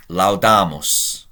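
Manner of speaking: laudamus said slowly and clearly for the class; slow and deliberate; slow quiz word. Shown as a demonstration. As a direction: pose laudamus as a question to translate. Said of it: "what's the English?".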